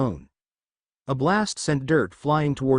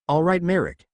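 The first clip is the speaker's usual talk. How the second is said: a bit louder and firm with resolve; determined, louder; 5 semitones higher than usual. Acted. Yami to Merrick, calling his bluff, firmly louder. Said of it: "his voice deepening and growing louder with determination".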